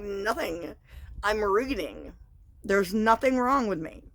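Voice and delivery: a touch of retold protest. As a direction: push back, exasperated and defensive. Defending herself in retold fight.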